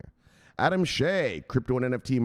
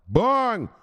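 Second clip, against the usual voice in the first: sharp mock gunshot, high and loud; shouted bang; 10 semitones higher, 6 dB louder than usual. Streamer mock-shooting a follower's profile, shouted bang. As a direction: fire it off like a shot.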